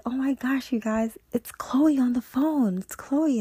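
high, breathless excitement, part whispered; retold excited gasp. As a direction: squeal the news to friends. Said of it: "she's just so excited".

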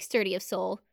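quietly, fondly; soft fond repeat. Shown as a demonstration. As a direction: murmur it fondly. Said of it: "I actually really like".

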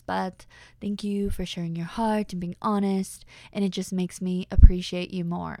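a lightly put-on, sugary grateful guy; gushing admirer voice. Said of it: "I don't know why I'm talking like this".

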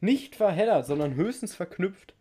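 mock cartoon voice quoting the clip; cartoon quote. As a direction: parrot the cartoon line playfully. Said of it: "Zitat Ende".

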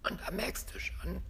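voiceless whisper on empty lungs; no air left. Shown as a demonstration. Coach shows speaking after exhaling fully, airless whisper. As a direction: speak with all the breath pushed out. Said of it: "dann versuchst du mal zu reden".

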